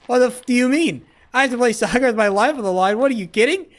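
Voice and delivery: outraged disbelief. Real, not acted. Asked to play for his life.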